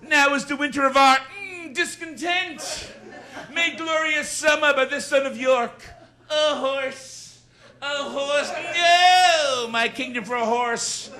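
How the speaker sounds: Jackie Gleason doing Shakespeare. Acted. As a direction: ham up the soliloquies like a brash TV comic. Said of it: "Here is Jackie Gleason doing Shakespeare".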